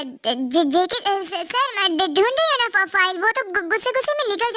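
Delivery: "ढूंढ रही हूँ ना फा-" stammered, falling off at the end; nervous stammer. Acted. Secretary caught by her boss mid-complaint, stammering nervously. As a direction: stumble over the words, caught out.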